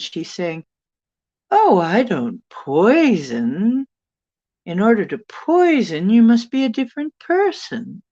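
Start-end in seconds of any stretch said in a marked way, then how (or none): 1.5-8.0 a lilting British voice waving off the charge; imitating British denial. Retelling the woman's denial to viewers in a British accent. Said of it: "So she's denying it".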